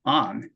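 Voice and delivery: "on" said with a back, open a-like vowel, slowly; native on sound. Shown as a demonstration. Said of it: "on의 원어민 발음입니다". (입을 아 모양으로 벌리고 뒤쪽에서 "on")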